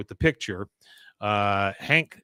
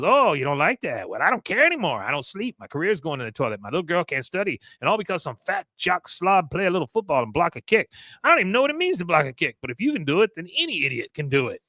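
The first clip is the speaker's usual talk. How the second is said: higher-pitched acted rant, pressure building; riled up; 5 semitones higher, faster than usual. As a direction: vent like someone at the end of their rope. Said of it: "I like Con getting riled up".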